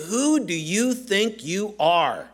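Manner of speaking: attitude. Shown as a demonstration. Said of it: "we have to hear a little bit of attitude in their voice".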